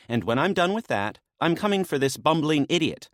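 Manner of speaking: lightly voiced woman, a touch of menace; menacing maenad. Naya vowing to deal with the guard, lightly voiced. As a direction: promise it like a mild threat.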